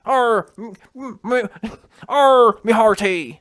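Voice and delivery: loud, hammed-up pirate cry; mock him as a stammering pirate, bursting into loud cries; exaggerated pirate "arr, me hearty"; pirate impression. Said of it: "That's what you were sounding".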